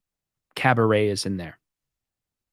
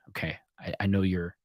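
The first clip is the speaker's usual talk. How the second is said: inner thought; 2 semitones lower, 8 dB quieter than usual. Retold or imitated. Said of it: "you know, in my head".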